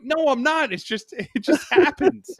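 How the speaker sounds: high-pitched mock protest with a laugh; defensive protest. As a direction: plead innocence, pitch jumping up. Retold defence to his wife.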